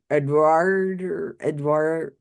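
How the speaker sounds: slow, tentative French accent on Edward; attempted French accent. Shown as a demonstration. YouTuber attempts psychic's French-accented Edward, embarrassed. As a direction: try French "Edward", stressing and drawing out the ending. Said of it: "say Edward with a French accent".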